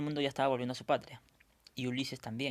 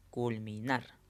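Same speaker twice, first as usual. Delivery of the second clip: "culminar" said aloud with weight on the final "nar"; stress on NAR; much slower than usual. Shown as a demonstration. Teacher demonstrating the tonic syllable, "culminar" with NAR stressed. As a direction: lean on the last syllable of "culminar". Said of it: "tenemos que pronunciar en voz alta".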